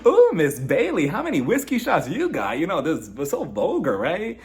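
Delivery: mock shocked reply. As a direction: play scandalised at the vulgar joke.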